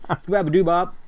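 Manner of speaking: giggling through the made-up word; cracking up on Skababadoo-bop; laughing mid-word. Real, not acted. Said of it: "I couldn't say it".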